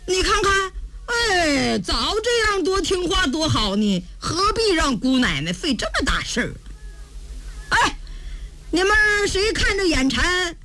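lightly voiced girl, taunting after victory; cocky crazy girl. (疯丫头略带得意地叫阵)

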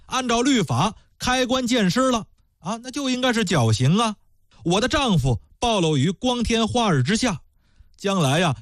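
high, pleading protest to the magistrate; indignant widow. Acted. Widow accuses the magistrate of favoritism, high and indignant.

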